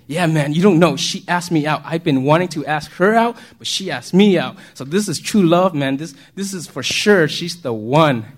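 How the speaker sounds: lightly acted excited teenage buddy; retold happy gushing, a touch emphatic; happy lovestruck friend. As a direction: gush like a friend who just got asked out, punching key words. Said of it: "And he was all happy".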